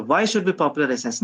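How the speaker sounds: a touch of defiant challenge; rebellious questioning. Shown as a demonstration. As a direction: ask it as a rebel would. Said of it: "this tone is more like that of a rebel".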